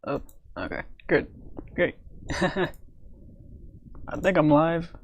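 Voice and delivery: ordinary talk, nothing marked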